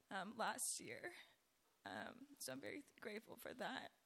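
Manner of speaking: hoarse, scratchy speaking voice; talking through a raspy throat. Real, not acted. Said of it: "Excuse my raspy voice".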